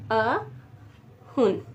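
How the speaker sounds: अहुन stretched very slowly; slow model word. Shown as a demonstration. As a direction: draw अहुन out. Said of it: "ninety को हम लोग कह देते हैं".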